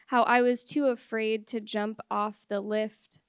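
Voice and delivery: measured poem reading with pauses between phrases. Acted. Poet reads a new poem to an audience, measured recital.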